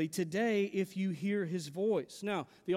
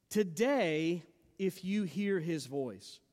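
"Today" stressed and set apart by a pause; emphasis on Today; slower than usual. Real, not acted. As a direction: land firmly on "Today", then pause before the rest. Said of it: "Notice the emphasis on the word today".

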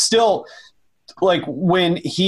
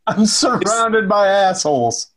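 Dark Helmet quote; 3 semitones higher, slower than usual. Retold or imitated.

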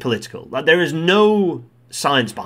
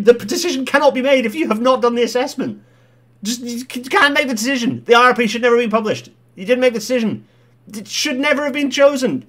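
much higher, louder outraged squawk; furious Burnham rant; 11 semitones higher, 5 dB louder than usual. Retold or imitated. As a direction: rant like an indignant mayor in a caricature voice. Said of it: "absolutely spot on from Burnham".

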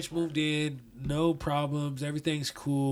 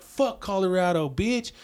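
raised, higher aggressive challenge; hostile gangster; 4 semitones higher, 4 dB louder than usual. Retold or imitated. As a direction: spit it out like a street threat. Gang member confronting them.

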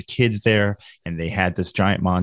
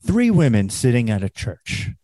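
Gilbert Gottfried impression; 3 semitones higher, 3 dB louder than usual. Storyteller mimics comedian opening a joke, pitched-up impression. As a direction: announce the setup like a brash stand-up. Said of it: "Godfrey goes up there and he goes".

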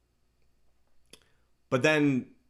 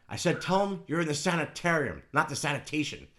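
bad Scarface accent; 4 semitones higher than usual. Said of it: "I can't do a Scarface accent".

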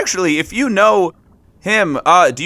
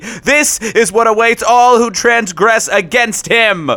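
grand herald voice. Acted. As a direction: proclaim it like a zealot. Finn broadcasts warning to creatures.

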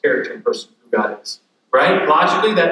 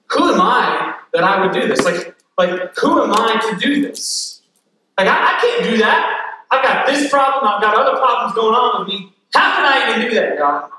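Moses protesting; 6 semitones higher than usual. Acted. Moses voiced pleading with God.

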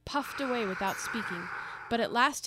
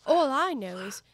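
put-on girlish Alice voice.

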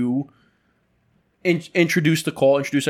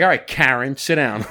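loud "Karen, sit down"; shouting; 4 dB louder than usual. Pretend. Shouting at a rude client.

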